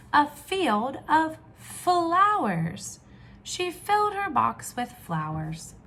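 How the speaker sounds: lively storybook reading voice; animated read-aloud for little ones; reading to children. Acted. Reads picture book aloud.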